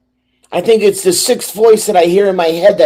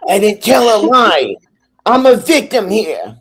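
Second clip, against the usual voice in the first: scorpion voice; 5 semitones higher than usual. Pretend. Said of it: "Can you argue with her in scorpion voice?".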